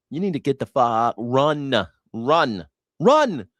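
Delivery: building mock yell; mock urging. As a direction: yell at him to flee. Urging him to flee.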